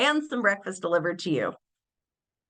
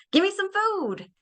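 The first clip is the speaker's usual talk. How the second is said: dog voice; 11 semitones higher than usual. Acted. Voicing the dog's request.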